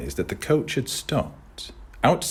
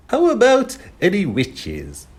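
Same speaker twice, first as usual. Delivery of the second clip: calling out; 13 semitones higher, 8 dB louder than usual. Acted. Voice calling through rain.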